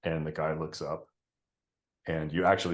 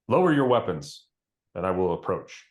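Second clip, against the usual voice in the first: commanding archer; 5 dB louder than usual. Acted. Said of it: "And you hear".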